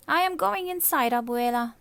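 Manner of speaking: high, loud huff; fuming. Acted. Martina, still fuming, tells Abuela she is going inside, high and loud. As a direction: storm off in a huff.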